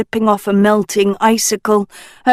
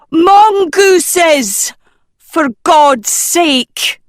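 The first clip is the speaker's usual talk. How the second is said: higher, loud exasperated blare; blaring; 9 semitones higher, 5 dB louder, much slower than usual. Acted. Nicola answering Sophie, blaring in exasperation. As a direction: blare it, fed up. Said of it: "Nicola blared".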